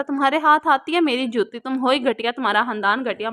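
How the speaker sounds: ordinary delivery, nothing marked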